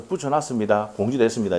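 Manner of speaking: a hint of a dry, matter-of-fact answer; lightly voiced prim official answer; curt official reply. Teacher mimics his curt reply to a complaining student, lightly dry. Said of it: "이렇게 하잖아".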